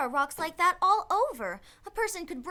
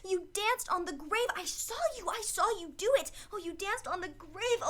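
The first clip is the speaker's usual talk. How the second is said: frightened; 3 semitones higher than usual. Acted. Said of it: "Edna, stop acting like that".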